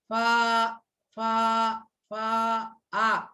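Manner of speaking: "फा" said alone as a long open aa, then bare "आ"; sounding out आ. Shown as a demonstration. Teacher showing the vowel inside fire, sounding out "फा" down to "आ". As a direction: isolate "फा", pause after each, end on open "आ". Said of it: "इथं आयचा उच्चार आ असा आहे".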